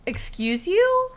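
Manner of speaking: high, slow, drawn-out sass; sassy excuse you. Real, not acted. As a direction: stretch You up high like offended. Sassy retort to the game.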